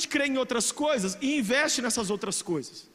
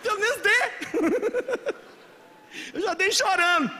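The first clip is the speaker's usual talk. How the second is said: slow, much higher laughing plea; laughing through tears; 8 semitones higher, 3 dB louder, slower than usual. Real, not acted. Preacher to congregation, pleading between laughter and tears.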